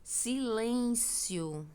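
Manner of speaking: SILÊNCIO drawn out long like an order; command intonation. Shown as a demonstration. Teacher showing students how an exclamation sounds, command intonation. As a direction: stretch out "silêncio" as a firm command. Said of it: "um tom mais de ordem, de um comando".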